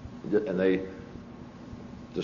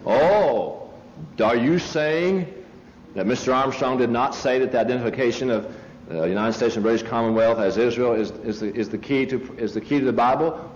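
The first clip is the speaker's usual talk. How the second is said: raised voice; 3 semitones higher than usual. Retold or imitated. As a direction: raise the voice for the crowd to hear. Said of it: "So I raised my voice a couple of levels".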